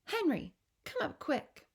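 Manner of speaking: high, urgent call upstairs; mild yell. Acted. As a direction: call him with alarmed urgency. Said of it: "and she yells".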